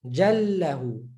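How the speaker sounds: jallahu with the doubled l held; doubled lam. Shown as a demonstration. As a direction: lean on the ll in jallahu. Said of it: "is going to be prolonged".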